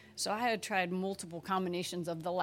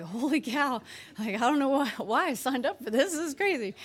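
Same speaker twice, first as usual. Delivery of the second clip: louder, mock panicked student; overwhelmed student; 3 semitones higher, 5 dB louder than usual. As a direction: act out freshman panic at the syllabus.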